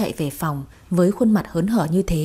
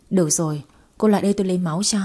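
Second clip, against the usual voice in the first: ordinary delivery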